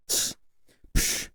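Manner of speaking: short scoffing hiss of breath; dismissive psh. Acted. Imagining catching a rioter in the act, dismissive psh.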